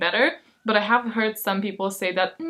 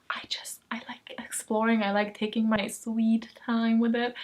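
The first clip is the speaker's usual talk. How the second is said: whispering; 6 dB quieter than usual. Real, not acted. Confiding love of slow books.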